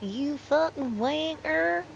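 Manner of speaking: hammed-up offended Brit in a British accent; British accent impression. Boss lady fires back in a mock-outraged British accent. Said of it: "my impression".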